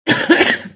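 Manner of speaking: loud dry cough fit; real cough. Real, not acted. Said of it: "Pardon, je tousse encore".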